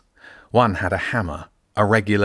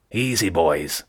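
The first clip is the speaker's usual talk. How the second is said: smooth and confident; slower than usual. Acted. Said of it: "Zen's voice was smooth and confident".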